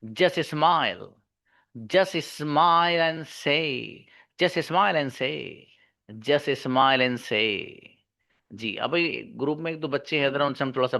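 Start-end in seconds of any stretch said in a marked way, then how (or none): 0.0-7.8 very slow, stretched "just smile and say"; model pronunciation. Shown as a demonstration. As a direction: dictate "just smile and say" for students to copy. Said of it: "Try to copy". (धीरे-धीरे खींचकर साफ़ उच्चारण)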